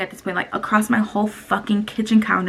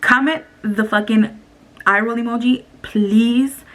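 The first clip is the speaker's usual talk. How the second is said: pushy plea. Real, not acted. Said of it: "Give a fucking comment right now".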